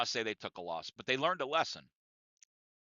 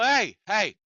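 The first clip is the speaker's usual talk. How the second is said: raised-pitch, firm reprimand from a boss; retold stern telling-off, higher and insistent; Chuck; 7 semitones higher, 3 dB louder than usual. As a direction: act out a boss calling for order. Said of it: "So Chuck finally tells Bill".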